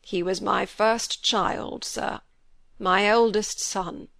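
slow, breaking with grief. A narrator's reading. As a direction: hold back tears as it cracks. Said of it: "his voice broke down".

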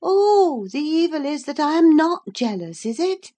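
high, loud sarcastic outcry; high loud scornful cry. A narrator's reading. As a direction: cry it out mockingly. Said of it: "cried Catherine".

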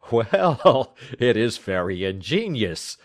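amused, with a laugh in the voice. A narrator's reading. Watson laughing at Holmes's clever deductions. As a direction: chuckle the words, mildly impressed. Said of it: "said I, laughing".

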